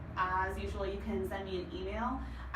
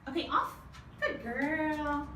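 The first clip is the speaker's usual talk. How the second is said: much higher and louder, cooing commands at the dog; high sing-song dog praise; 7 semitones higher, 4 dB louder, slower than usual. Real, not acted. Trainer coaxing her dog Chloe onto the stool, high excited praise. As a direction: cheer the dog on in a bright pet voice.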